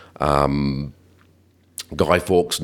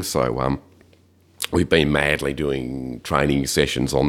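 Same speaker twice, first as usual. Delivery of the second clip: hoarse from hay fever; croaky, scratchy voice. Real, not acted. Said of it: "I've got a bit of a croaky voice".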